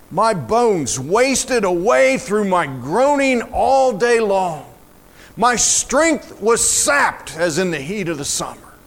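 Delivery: measured lament with drawn-out words; dramatic psalm reading. Acted. Preacher reading of wasted bones and groaning, dramatic lament. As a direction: read it as a slow, weighty lament.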